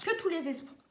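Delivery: hiccup breaks the words. Real, not acted. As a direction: cut off by a hiccup. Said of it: "j'ai le hoquet".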